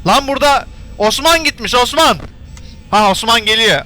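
high, loud startled calling of Osman; surprised yelling. Real, not acted. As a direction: shout out the name in alarm. Panicked yelling at animatronic Osman. (ürkmüş bağırış)

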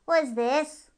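high, loud question; a hare poking at a crown; curious hare. A narrator's reading.

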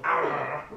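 joking pirate "arr"; pirate growl. Pretend. Gamer joking about a sailor-suited pirate, pirate growl. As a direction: give a playful pirate growl.

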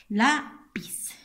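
"Lápiz" with a loud, rising LÁ, then piz; stressed first syllable. Shown as a demonstration. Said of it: "el acento".

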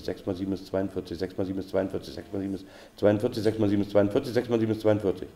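fast, run-together repetitions of the sum; quick drill. Shown as a demonstration. Teacher repeats the sum until it flows, quick drill. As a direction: rattle it off over and over. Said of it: "wenn ich dann schnell kann".

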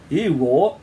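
startled splutter, slightly loud; taken aback old man. A narrator's reading. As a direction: burst out in mild disbelief. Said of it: "spluttered Sid".

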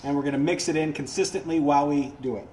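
muffled through a chemical respirator. Real, not acted. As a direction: talk muffled behind a face mask. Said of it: "when I'm doing this with the respirator on".

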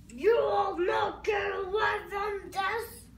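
heroic shout. Pretend. Hero threatens Empire in play.

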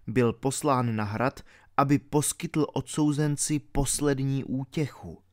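ordinary delivery, nothing marked

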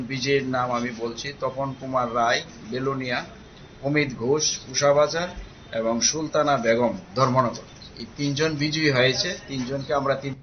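loud, proud reading of winner names; booming prize announcer. Real, not acted. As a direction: call out each winner like a prize draw.

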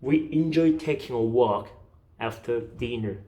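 slow "We enjoy taking a walk", pause, soft "after dinner"; phrased in chunks. Shown as a demonstration. Teacher modelling for students to repeat, chunked phrasing. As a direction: split the sentence before "after dinner". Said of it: "의미 단위로 끊어가시면 돼요".

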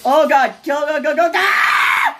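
yelling go go in a frenzy; raging at the game; gamer rage. Real, not acted. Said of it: "He keeps raging, still".

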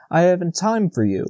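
mildly hurried dismissal. A narrator's reading. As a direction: brush someone off in a hurry. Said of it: "he said hurriedly".

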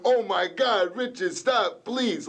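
high, fluttery mock-effeminate plea; hammed-up shrill cry of a flamboyant man; mincing impression. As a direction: camp it up as a panicked boyfriend. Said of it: "like a little fairy like this".

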